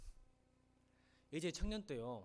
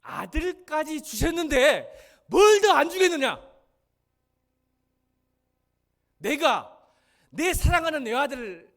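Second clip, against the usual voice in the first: slow, much higher and louder proclamation; impassioned reading; 9 semitones higher, 19 dB louder, slower than usual. Shown as a demonstration. Pastor shows congregation the right reading, slow and loud. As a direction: cry it out like a father giving everything. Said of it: "이렇게 읽어야 돼요".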